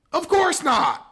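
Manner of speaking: high, slow, loud mocking; sarcastic. Real, not acted. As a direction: drag it out in mock disbelief. Sarcastic answer, laughed at.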